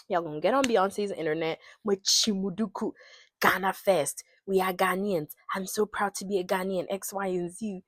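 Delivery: hammed-up mock Ghanaian pride; lightly put-on showy patriot voice; mock performative Africanness. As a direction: imitate someone putting on a proud Ghanaian act. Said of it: "the whole performative Africanness".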